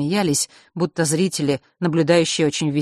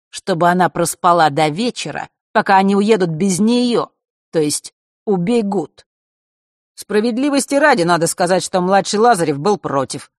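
sugary and louder; passive aggressive; 3 semitones higher, 5 dB louder than usual. Acted. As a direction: poison wrapped in sweetness. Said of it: "сладким голосом продолжал Марк".

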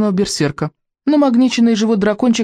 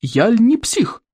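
slow, higher-pitched mock bellow; drawn-out rhetorical roar; booming chief; 6 semitones higher, slower than usual. A narrator's reading. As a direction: boom it out slowly like a boastful warlord. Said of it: "громыхнул вождь".

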